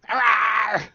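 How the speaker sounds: high loud beast roar; huge fiery dragon roar. Retold or imitated. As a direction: let out a shrieking roar. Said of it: "Barney's like".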